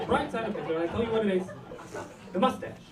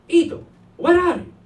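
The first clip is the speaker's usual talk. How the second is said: Francesca; 8 semitones higher, 6 dB louder than usual. Acted. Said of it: "Francesca called me and she said".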